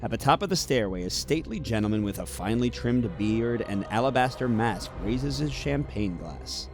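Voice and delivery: measured storyteller read, setting the scene; story narration. A narrator's reading. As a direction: draw the listener into the gala. Story narration of board game scenario.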